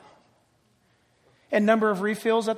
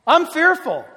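prayer; 3 semitones higher, 4 dB louder than usual. Shown as a demonstration. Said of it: "Take that fear and say".

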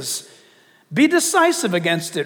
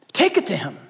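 quieter, earnest repeat; softer, lower take; faster than usual. Shown as a demonstration. Preacher repeating advice to the church, softer earnest. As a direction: say it again gently and lower. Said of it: "be decisive".

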